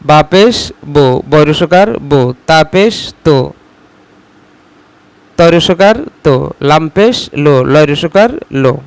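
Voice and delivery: বো and লো drawn out slowly, syllable by syllable; slow sing-song drill; slow drawn-out recitation. Shown as a demonstration. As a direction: sound out বা পেশ বো slowly for the class. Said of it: "উচ্চারণে রস্যকার হয়".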